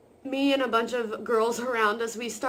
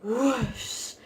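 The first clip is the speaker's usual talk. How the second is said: whoosh; 2 semitones higher than usual. Retold or imitated. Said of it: "I just went".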